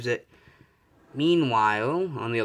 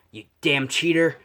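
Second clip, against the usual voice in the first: louder, mildly angry accusation; Bakugo, pissed off; 3 semitones higher, 5 dB louder than usual. Acted. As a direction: accuse with a touch of acted anger. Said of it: "Bakugo is pissed off".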